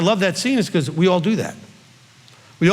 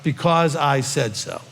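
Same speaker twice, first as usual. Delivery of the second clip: stern parent; 3 semitones lower, slower than usual. Retold or imitated. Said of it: "you heard this as a child".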